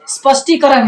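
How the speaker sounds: स्पष्टीकरण with s clipped onto p; half-s pronunciation. Shown as a demonstration. Teacher stresses the half letter, correct pronunciation. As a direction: say स्पष्टीकरण as "spashtikaran", not "sapashtikaran". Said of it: "आधा स बोलना है".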